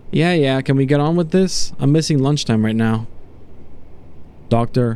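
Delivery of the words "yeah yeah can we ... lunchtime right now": a hint of an irritable prisoner; lightly voiced impatient test subject. Test subject to doctor before the experiment, mildly impatient. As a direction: hurry the doctor along, mildly fed up.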